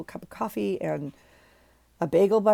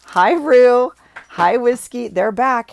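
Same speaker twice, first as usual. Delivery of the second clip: pet greeting voice; 6 semitones higher, 10 dB louder, slower than usual. Real, not acted. Greeting pets coming back.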